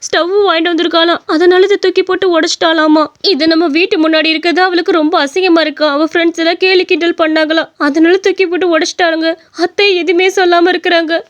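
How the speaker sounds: tearful complaint. Acted. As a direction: pour out the hurt to husband. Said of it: "உட்காந்து அழுதுகிட்டு இருக்க?". (அழுகையோடு கணவனிடம் முறையிடுதல்)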